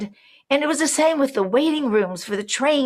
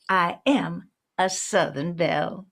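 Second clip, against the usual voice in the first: Southern belle accent on "I am a Southern belle"; 2 semitones lower than usual. Shown as a demonstration. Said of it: "quickly put on a Southern accent".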